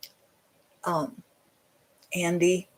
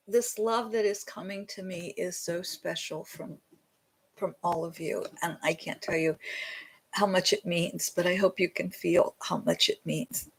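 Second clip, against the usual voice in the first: holding back tears; 7 dB quieter than usual. Real, not acted. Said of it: "or I will start crying".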